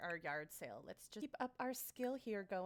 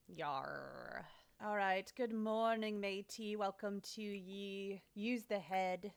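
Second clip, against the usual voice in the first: put-on pirate accent; slower than usual. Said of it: "It's talk like a pirate day".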